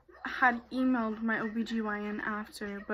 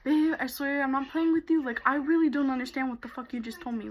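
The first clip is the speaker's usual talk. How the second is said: exasperated appeal to a partner; insistent retold protest; 3 semitones higher, 4 dB louder than usual. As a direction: insist you are not playing around. Pleading with disbelieving boyfriend in retold argument.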